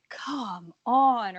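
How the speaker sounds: drawn-out mock yell, no real volume; imitated yell. Podcaster quotes Bellinger thinking he hit it out, imitated yell. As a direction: imitate a player's long yell at talking level. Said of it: "him yelling".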